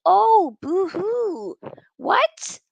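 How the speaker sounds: mock boo-hoo. Real, not acted. Mocking Maguire's complaints.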